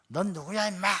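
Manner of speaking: mock drunken confrontation; rough retold drunk's challenge; drunk man. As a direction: imitate a belligerent drunk challenging someone. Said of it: "집사님이 술이 취해서 오셨어요".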